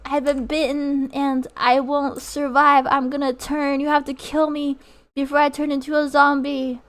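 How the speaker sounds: hammed-up bitten survivor begging; dramatic dying plea. Acted dying scene in voice pack.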